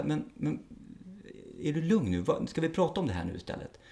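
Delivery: soft, patient de-escalating question; acted calm. Police officer waiting out someone who was shouting, calm. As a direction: gently offer to talk it over. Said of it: "Jag brukar bara vara lugn".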